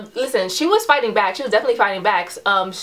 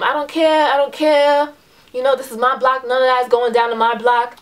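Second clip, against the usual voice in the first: higher, defiant mock yell; mild argumentative yell, pitched up; retold yelling back; 4 semitones higher, 3 dB louder than usual. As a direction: replay a heated retort at modest volume. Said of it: "I'm yelling back".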